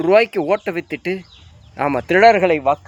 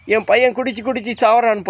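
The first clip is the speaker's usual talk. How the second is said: mock lament; 5 semitones higher than usual. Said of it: "புலம்புறீங்களா?".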